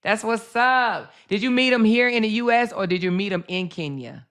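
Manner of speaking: normal talking voice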